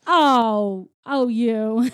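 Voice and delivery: playful mock flirting; flirty coyness. Retelling the rhino guard answering a wink, flirty. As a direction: coo it like a flattered flirt. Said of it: "like, flirting".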